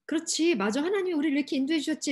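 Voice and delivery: mock sudden recognition; dawning realization. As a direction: act out a crowd coming round. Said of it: "이렇게 깨달았으면 얼마나 좋아요".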